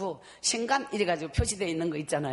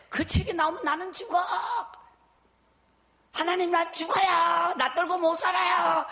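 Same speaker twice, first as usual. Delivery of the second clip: anguished cry; 8 semitones higher, 3 dB louder than usual. Retold or imitated. Fearing the book's release, shouted plea to God. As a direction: dread pouring out as a shout. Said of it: "하면서 제가 막 그렇게".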